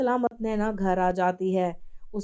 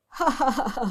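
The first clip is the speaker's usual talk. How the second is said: gleeful evil laugh; 2 semitones higher than usual. Acted. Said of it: "खुश होकर कहती है".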